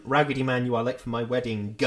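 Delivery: imitated TV line, "wedding" ending in an extra "ga"; understated delivery, then "wedding" finished with "ga"; tacked-on "ga" ending. Quoting Doctor Who, "wedding" with the hated "ga" ending. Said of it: "going ah at the end of it".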